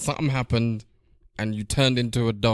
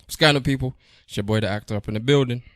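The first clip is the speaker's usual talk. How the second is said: sounding like a cold; 3 dB louder, faster than usual. Real, not acted. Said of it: "You sound like you got one cold".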